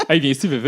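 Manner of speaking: mock lisp, V V said with a slushy tongue. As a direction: lisp through V V, half laughing. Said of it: "un gars avec un cheveu sur la langue".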